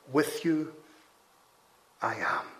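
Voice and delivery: measured pause between "With you" and "I am"; emphatic reversed order. Shown as a demonstration. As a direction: pause after "With you" and drop down on "I am". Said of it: "very emphatic way of expressing that".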